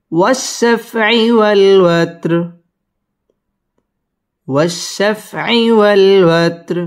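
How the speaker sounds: slow chanted recitation with rounded و; Quran recitation. Shown as a demonstration. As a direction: stretch والشفع والوتر slowly like tilawat. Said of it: "এবং এখানে ওয়াকফ করতে হবে".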